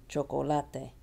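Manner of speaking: Spanish "Chocolate" as cho-co-LA-te; "Chocolate" in Spanish, third syllable stressed. Shown as a demonstration. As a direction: lean on "la" in "Chocolate".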